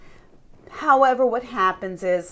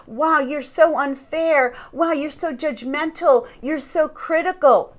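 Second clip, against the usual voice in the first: higher-pitched mock reproach; accusing; 4 semitones higher than usual. Narcissist faulting whoever brought something up, mock accusing. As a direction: throw the blame back, imitating a narcissist. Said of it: "start to accuse you and say".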